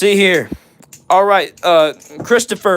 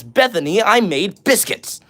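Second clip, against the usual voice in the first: meme impression; 4 semitones higher than usual. Streamer reminded of a meme by the name Bethany, meme impression. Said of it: "the meme that says".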